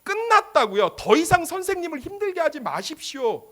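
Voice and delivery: high, loud, incredulous pleading; acted-out agitated objection; indignant protest. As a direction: protest sharply with the pitch jumping up. Acts out protesting bystanders to Jesus.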